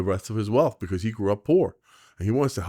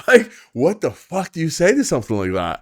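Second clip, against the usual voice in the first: higher and louder through a laugh; laughing disbelief; 8 semitones higher, 6 dB louder than usual. Real, not acted. Agent marvelling at the kid's reply, laughing high and loud. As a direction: burst out laughing, baffled.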